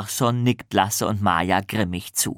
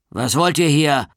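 stern voice over a loudspeaker; a strict warden barking through the speaker; louder, stern question from the loudspeaker; 5 semitones higher, 5 dB louder than usual. Acted. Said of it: "fragt eine strenge Stimme aus dem Lautsprecher".

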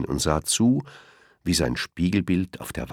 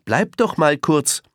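higher, slow friendly hello; Elmar greeting; 11 semitones higher, 4 dB louder than usual. A narrator's reading. Elmar greets the rushing lion, slow friendly hello. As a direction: greet him warmly and drawn out. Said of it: "sagte Elmar".

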